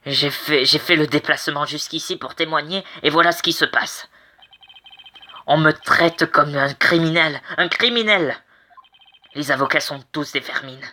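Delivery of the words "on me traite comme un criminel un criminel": indignant protest. Acted. Offended witness protesting to the court, indignant. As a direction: protest the insult, climbing in outrage.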